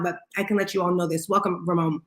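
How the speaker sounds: ordinary talk, nothing marked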